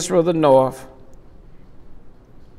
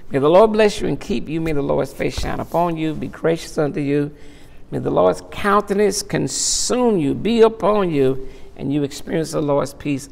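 benediction. Acted. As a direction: bless the congregation gently. Pronounces closing benediction.

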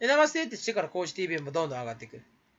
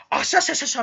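mild mock cackle; 7 semitones higher, 4 dB louder, faster than usual. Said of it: "みたいな".

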